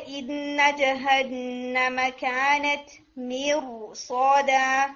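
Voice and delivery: مرصادا with a full, heavy ra; teacher modelling heavy ra; heavy ra demo. Shown as a demonstration. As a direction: recite مرصادا with a thick ra. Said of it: "اس کو heavy کر کے پڑھیں گے".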